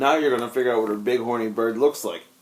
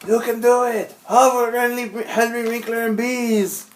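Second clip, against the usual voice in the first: cheering redneck; 11 semitones higher than usual. Retold or imitated. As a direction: cheer like a Cajun fan. Quoting Waterboy cheerleader line.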